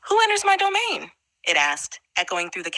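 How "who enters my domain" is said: croaking frog monster. A narrator's reading. Frog monster challenges an intruder in its cave, croaking. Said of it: "a low, croaking voice".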